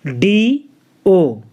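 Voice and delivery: "डीओ" spelled as two drawn-out letters; spelled out slowly. Shown as a demonstration. Teacher spelling the word out before reading it, slow. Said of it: "इसको हम पढ़ते हैं डू".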